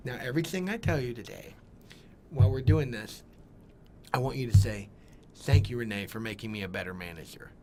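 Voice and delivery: mock speech impediment, lisping manager; Renee. Restaurant owner instructing new manager, in an imitated speech impediment. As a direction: imitate a boss with a speech impediment, sounds distorted. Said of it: "had a horrible speech impediment".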